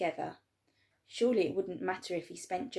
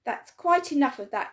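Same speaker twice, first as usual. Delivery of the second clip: higher, louder stern shout; 6 semitones higher, 8 dB louder than usual. A narrator's reading. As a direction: put a stop to it. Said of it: "the fat shopkeeper shouted".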